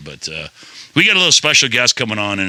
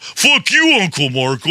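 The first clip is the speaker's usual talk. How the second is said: mock high yelp; 6 semitones higher, slower than usual. Cursing the little rock mockingly.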